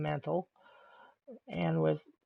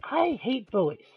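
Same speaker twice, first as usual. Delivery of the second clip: angry outburst; 4 semitones higher, 4 dB louder than usual. Real, not acted. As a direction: let the hate for bullies burst out. Ranting about being bullied.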